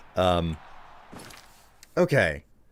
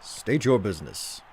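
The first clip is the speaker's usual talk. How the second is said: lightly voiced Imperial Guard challenge; amateur imitation of a game guard on duty; 4 dB quieter than usual. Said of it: "sounding like an Imperial Guard".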